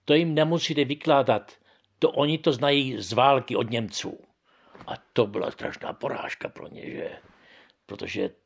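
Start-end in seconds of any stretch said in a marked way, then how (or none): 0.0-4.2 raised, louder call-out in a meeting; retold shout. Old man retelling how he shouted down the officials, raised voice. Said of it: "a zakřičel jsem".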